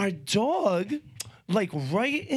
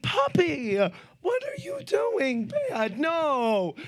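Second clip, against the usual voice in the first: much higher, slow cooing at the dog; puppy baby talk; 10 semitones higher, slower than usual. Retold or imitated. Owner gently scolding her puppy, high baby talk.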